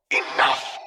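thundering dark lord command. A narrator's reading. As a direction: shut them both up. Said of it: "The thundering bass".

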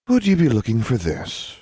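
sing-song taunt from a custodian; melodic voice. A narrator's reading. Custodian holding up the time turner, in a melodic voice. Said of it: "in a surprisingly melodic voice".

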